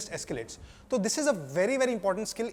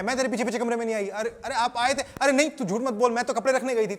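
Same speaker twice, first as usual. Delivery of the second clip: mildly heated denial, higher voice; defensive parent; 4 semitones higher, 3 dB louder, faster than usual. Acted. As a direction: argue back as a parent cutting the child off. Acted parent-child quarrel, parent denies. (झगड़े में हल्की चिढ़ के साथ सफ़ाई देना)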